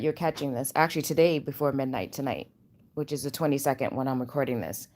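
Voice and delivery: drowsy, low-energy talk; sleepy voice. Real, not acted. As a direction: talk like you just woke up. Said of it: "This is a sleepy voice".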